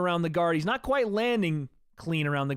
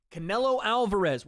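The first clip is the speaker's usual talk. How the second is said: announcer intro; 4 semitones higher than usual. Pretend. Streamer opening the fight broadcast, announcer voice.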